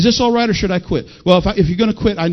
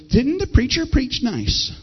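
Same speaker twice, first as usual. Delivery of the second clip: lightly voiced prim churchgoer, soft and slow; softly, slowly act out a polite compliment; 4 semitones higher, 5 dB quieter, slower than usual. Preacher mimicking folks with their hands folded, mock prim. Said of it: "sitting there with their hands folded".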